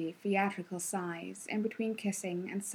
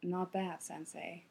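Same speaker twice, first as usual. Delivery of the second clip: hushed, almost breathless praise; soft whisper; 9 dB quieter, slower than usual. A narrator's reading. Kakashi whispering praise to Iruka, hushed. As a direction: breathe the words out. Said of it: "and then whispered".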